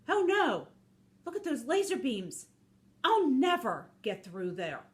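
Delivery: mildly panicked story character; dismayed wolf facing an obstacle; scared wolf. Acted. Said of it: "Look how scared he looks".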